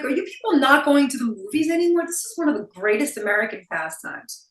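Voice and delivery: mildly exasperated appeal; mock incredulous quote. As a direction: act out disbelief at these people. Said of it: "I'm like".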